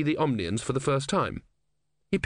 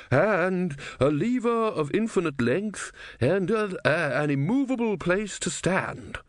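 put-on old man voice; 7 semitones higher than usual. A narrator's reading. Legibus asking for impossible tools.

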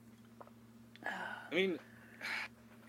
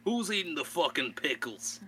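put-on New Yorker accent; 4 semitones higher than usual. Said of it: "our default is New Yorker".

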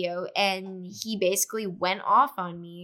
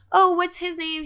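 mimicked ex-friend; 9 semitones higher, 3 dB louder than usual. Ex-friend asking past the girlfriend, imitated high sweet tone. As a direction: lightly imitate a girl fishing for names.

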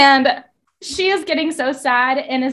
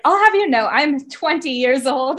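put-on indignant girl; 3 semitones higher, 3 dB louder than usual. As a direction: squeak it out all offended. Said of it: "and she's like".

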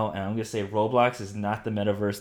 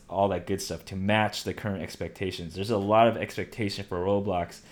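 normal talking voice

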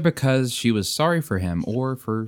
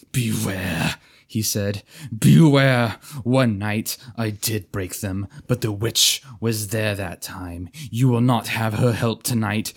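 menacing knight; 2 semitones higher, 4 dB louder than usual. Acted. Chained knight threatens and pleads.

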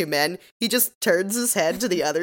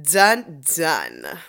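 imitated scene-change sting. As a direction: mimic a dramatic two-beat TV sting.

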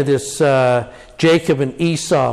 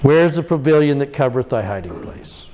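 anguished lament. Shown as a demonstration. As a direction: cry out to a silent God. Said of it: "And then comes the lament".

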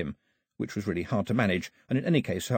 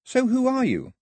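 higher, louder challenging voice; voice in the air; 14 semitones higher, 4 dB louder than usual. A narrator's reading. The disembodied voice challenges Daphne. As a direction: question her from nowhere, pressing. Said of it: "said the voice in the air".

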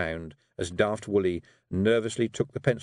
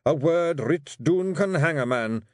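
high, louder Scots grumble, slow on the end; growling Rob; 7 semitones higher, 4 dB louder than usual. Acted. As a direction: growl out your disgust at letters. Rob's voice.

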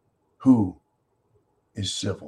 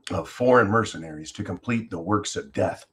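solemn declamation of a founding document; lofty stately oratory. Acted. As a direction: read it like a grand public proclamation. Reads Declaration aloud as oration.

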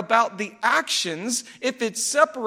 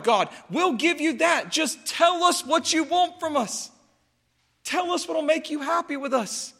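desperate pleading; 4 semitones higher than usual. Retold or imitated. Israel to God, higher, desperate, bargaining pleas. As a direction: beg to name any price. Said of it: "they are pleading with him desperately".

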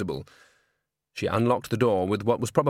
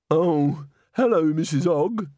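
put-on startled old woman; 6 semitones higher, 3 dB louder, slower than usual. A narrator's reading. Startled old usher greets Nanny.

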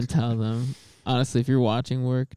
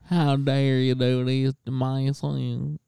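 very slow, drawn-out mock indignant mother; hammed-up mom impression; slower than usual. Trying the impression of friend's mom once more, mock indignant. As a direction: stretch every word in a silly put-on mom voice. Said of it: "what that could possibly be an impression of".

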